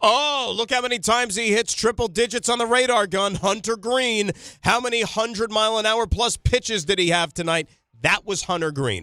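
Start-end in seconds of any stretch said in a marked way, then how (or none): 0.0-7.7 mock excited gushing, high and eager. Retelling how everybody raved about a young pitcher: imitating eager gushing fans. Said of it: "everybody was tripping over themselves saying".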